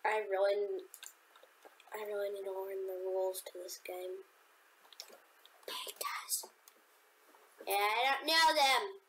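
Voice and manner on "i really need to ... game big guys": hushed whisper to himself. Real, not acted. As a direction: whisper it under your breath. Whispering mid-game.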